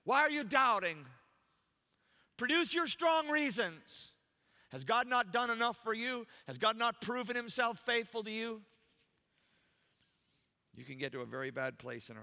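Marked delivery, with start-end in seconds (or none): 0.0-8.6 high, loud, insistent rebuke; impassioned preacher voicing a reproach; Jesus challenging doubters. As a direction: press the doubters with ringing questions. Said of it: "Jesus would say".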